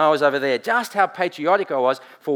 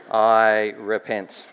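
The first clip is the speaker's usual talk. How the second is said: mock repentance; 3 semitones lower, 4 dB louder, much slower than usual. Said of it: "that was a lie".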